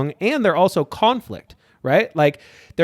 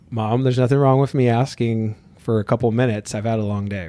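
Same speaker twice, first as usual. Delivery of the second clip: regulated and calm; 5 semitones lower than usual. Retold or imitated. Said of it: "trying to be really regulated and calm about it".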